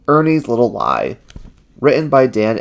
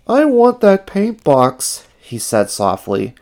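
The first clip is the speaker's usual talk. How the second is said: long for it, pitched way up; high-pitched puppet-like wishing; Ernie, torn; 11 semitones higher than usual. A narrator's reading. Ernie agonizes alone.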